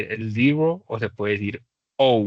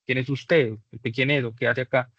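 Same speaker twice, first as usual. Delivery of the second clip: threatened challenge; 2 semitones higher than usual. Acted. Homeowner questioning a stranger in the yard, mildly threatened. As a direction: lightly play someone confronting an intruder. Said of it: "se siente amenazado, usted le pregunta".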